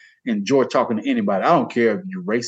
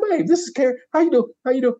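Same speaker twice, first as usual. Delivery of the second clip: friendly introduction; 10 semitones higher, faster than usual. Retold or imitated. Retold cheery introduction to wife.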